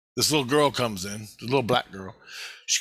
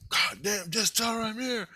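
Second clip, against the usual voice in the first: high, worn-out pleading in mimicry; imitated drained brother; 10 semitones higher, 3 dB quieter than usual. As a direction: act out someone with no energy left, still insisting. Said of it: "He's got no energy now".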